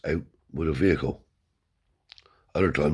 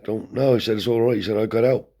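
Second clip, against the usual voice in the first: flustered refusal; 5 semitones higher than usual. Retold or imitated. Uncle Tony refusing the father's help, high flustered voice. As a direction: brush him off anxiously.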